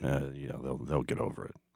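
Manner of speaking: leaning in, a little too emphatic tone. Quoting a coach's answer about the Bulldogs practicing elsewhere: Bill Belichick impression. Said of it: "That's my best Bill Belichick".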